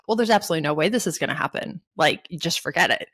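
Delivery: fast dismissive brush-off; lightly mocking employer waving it away; mock denial. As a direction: rattle off a quick flat refusal. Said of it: "a little bit of denial".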